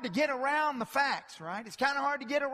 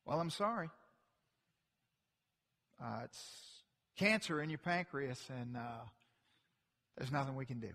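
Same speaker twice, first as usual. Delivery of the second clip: doctor breaking bad news; 9 semitones lower, 9 dB quieter, faster than usual.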